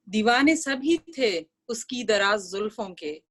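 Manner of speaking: measured, lilting verse reading; ghazal recitation. Acted. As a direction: recite the couplet for a mushaira audience.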